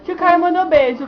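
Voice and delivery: high, sing-song cooing. Real, not acted. Cooing to the baby.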